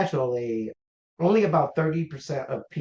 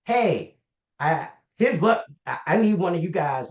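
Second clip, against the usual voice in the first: raised, higher-pitched urgent call-out; mock yell; 4 semitones higher, 4 dB louder than usual. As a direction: imitate a nurse yelling for help, not at full volume. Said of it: "and she's yelling".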